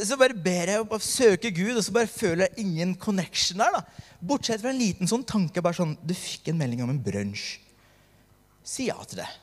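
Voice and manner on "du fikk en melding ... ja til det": matter-of-fact inner voice. Retold or imitated. Calm inner thought answers his striving.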